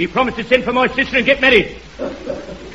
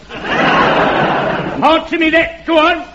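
raised voice, each answer me that thrown out to the crowd; heckler shouting; 5 semitones higher, much slower than usual. Acted. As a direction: shout the challenge back at the crowd.

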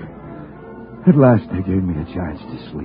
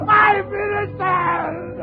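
anguished cry; 12 semitones higher, much slower than usual. Acted. Nightmare, crying out.

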